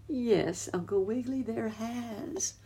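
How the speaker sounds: sadly. Acted. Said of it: "sadly answered the muskrat lady".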